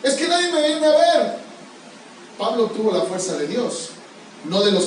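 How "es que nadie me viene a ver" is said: mock whining, pitched higher; whiny excuse. Preacher mimicking a believer's excuse, whiny. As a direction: sulk as if making a lame excuse. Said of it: "Eso no es pretexto".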